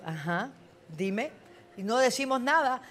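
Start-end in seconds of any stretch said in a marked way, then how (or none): 0.0-1.3 slow, soft, patient invitation; God waiting, gently asking to hear. Acted. God gently inviting the weeping believer to speak, slow. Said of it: "Y Dios".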